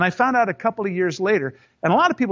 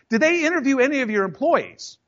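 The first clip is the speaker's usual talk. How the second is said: repeated challenge; 7 semitones higher than usual. Retold or imitated.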